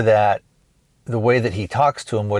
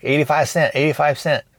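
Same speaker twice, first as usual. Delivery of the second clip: higher-pitched, lightly mimicked Korean accent; imitated Korean accent; 6 semitones higher than usual. Clerk repeating the price to a confused customer, imitated Korean accent. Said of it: "has a very thick accent".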